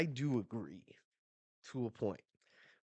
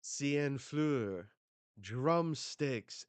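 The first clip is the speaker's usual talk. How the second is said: higher, loud called-out attack name; 5 semitones higher, 6 dB louder, much slower than usual. Retold or imitated. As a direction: shout the move name as you strike. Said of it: "she goes".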